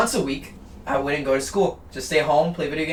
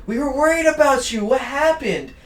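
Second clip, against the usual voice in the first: concerned teacher; 8 semitones higher than usual. Retold or imitated. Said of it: "the teacher was like".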